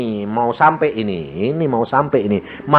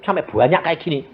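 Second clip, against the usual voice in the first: surprised question; 5 semitones higher than usual. Retold or imitated. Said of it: "aku bilang".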